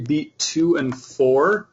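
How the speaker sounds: "two" and "four" said slowly, each one pressed; stress on two and four. Shown as a demonstration. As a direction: spell out "beat two and four" slowly, leaning on "two". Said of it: "what you're gonna notice as I play this is that every".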